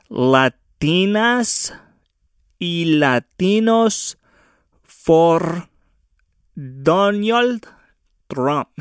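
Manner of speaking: slow, high, drawn-out mock announcement; sarcastic rally-title voice; mock slogan. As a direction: present it like a grand campaign banner.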